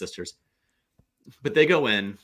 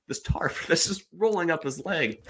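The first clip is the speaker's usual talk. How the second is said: laughing while telling; 5 semitones higher than usual. Real, not acted. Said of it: "I'm laughing now".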